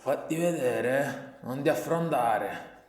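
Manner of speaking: slow solemn ghost-calling voice; mock seance call. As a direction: summon the ghost, drawn out.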